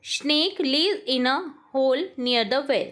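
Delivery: very slow, word by word dictation. Shown as a demonstration. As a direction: read it out slowly for the class to write. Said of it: "teacher reads English sentence slowly". (धीमे-धीमे बोलकर लिखवाना)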